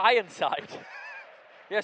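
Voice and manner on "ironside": ringing mock title call; announced title. Supplying the TV title to his pal, proclaimed loudly. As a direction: proclaim the show's name. Supplying the show's name with flourish.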